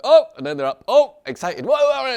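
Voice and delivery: very high, loud whoops; hammed-up thrill; mock excited. Teacher imitating the emotional high again, mock excited whoops.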